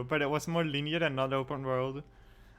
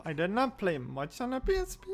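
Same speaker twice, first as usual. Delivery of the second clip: voice crack; 5 semitones higher than usual. Real, not acted. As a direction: voice cracking on the line. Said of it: "Ah, voice crack".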